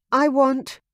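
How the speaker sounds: high, loud flustered repeat; stuck on the words, flustered; flustered woman. Acted. Veronica sputtering at Ian, high and flustered.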